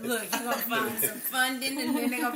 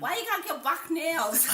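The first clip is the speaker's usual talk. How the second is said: put-on Asian accent; 5 semitones higher than usual. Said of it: "I have a better Asian accent".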